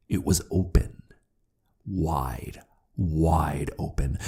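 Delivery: slow, hushed horror; whispering. A narrator's reading. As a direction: breathe it out in awe.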